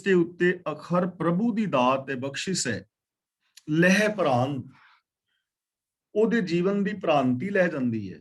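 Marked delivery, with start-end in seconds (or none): 3.7-4.6 ਲਹਿ ਪ੍ਰਾਂਤ said as two words, ਲਹਿ then ਪ੍ਰਾਂਤ with a clear break; correct recitation. Shown as a demonstration. Teacher models the scripture reading for students, clearly split. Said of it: "ਇਸ ਦਾ ਉਚਾਰਨ ਹੋਏਗਾ ਲਹਿ ਪ੍ਰਾਂਤ".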